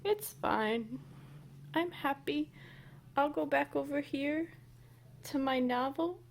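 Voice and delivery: high pretend resignation; mock sulk. Owner pretending to be fine after rejection, mock sulk. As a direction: sulk off in jest.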